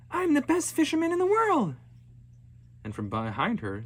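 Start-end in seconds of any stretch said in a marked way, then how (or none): 0.1-1.8 high, loud boastful shout; proud yell. Acted. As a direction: crow your triumph over the ice. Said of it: "Alishua yelled".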